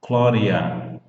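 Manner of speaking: Glória with the U said as O; Glória, clear O sound, final vowel spoken; Glória, vowels fully voiced to the end; model pronunciation. Shown as a demonstration. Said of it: "A U com som de O".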